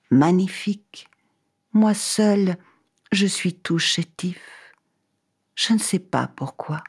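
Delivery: lightly voiced sickly tree, slow and frail; a weak, slow little tree voice; talking tree. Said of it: "Une voix répondit".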